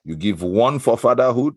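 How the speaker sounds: hammed-up Igbo accent for a game segment. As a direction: play the host in a broad Igbo accent. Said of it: "I pick the Igbo accent".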